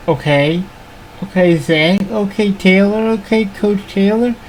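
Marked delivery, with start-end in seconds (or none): 1.2-4.4 excited. Real, not acted. Tense fourth-down call, rising excitement.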